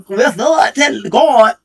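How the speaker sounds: mock Nola. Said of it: "He gonna come out here".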